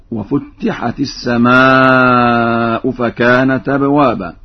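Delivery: slow, measured recitation with long held vowels; Quran recitation. Shown as a demonstration. Teacher demonstrates a reading for students, slow recitation.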